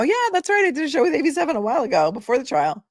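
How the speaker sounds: high, fast eager recall; high, fast delighted recollection; excited remembering. Real, not acted. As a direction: rush it out delighted. Remembers doing show.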